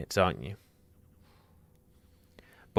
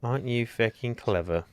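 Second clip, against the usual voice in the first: salty; 3 semitones higher, 4 dB quieter than usual. Real, not acted. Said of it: "Why do you sound so bitter?".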